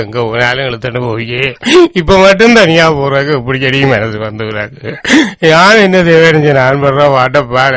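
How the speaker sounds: wailing lament, voice breaking on each ஐயோ; keen for the dead wife, pleading into the air; grieving wail. Acted. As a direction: widower mourning his wife aloud, wailing. Widower wails for wife.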